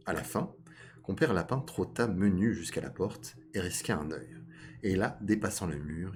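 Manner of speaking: measured storytelling read; story narration. A narrator's reading. Storyteller introducing fox and rabbit to listeners, measured narration. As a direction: narrate a fable at an unhurried, even pitch. Reads a fable aloud.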